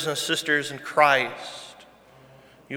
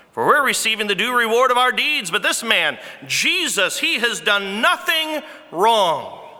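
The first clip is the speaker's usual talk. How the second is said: earnest confession; 6 semitones higher than usual. Retold or imitated. Preacher repeats thief's confession to church, fervent and raised. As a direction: press the confession with fervour. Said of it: "That is understanding who you are".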